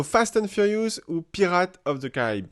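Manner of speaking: film titles in a French speaker's English accent. Shown as a demonstration. Host shows off English film titles, attempted English accent. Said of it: "Vous aimez mon accent anglais ou pas".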